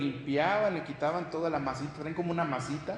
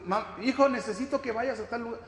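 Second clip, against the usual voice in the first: mother calling son; 6 semitones higher than usual. Retold or imitated. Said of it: "le vuelves".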